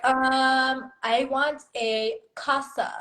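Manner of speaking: put-on Spanish word in a mild English accent; slow, hesitant child's English-accented Spanish. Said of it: "like, in an English accent".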